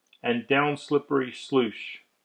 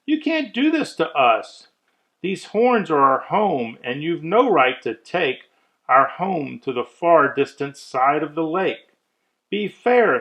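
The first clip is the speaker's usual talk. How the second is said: higher, pushy protest from a freeloading guest; indignant guest; 4 semitones higher, 3 dB louder than usual. Acted. Guest protests to the moose, indignant and higher. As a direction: demand he stay, voice raised and high. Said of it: "screamed his guest".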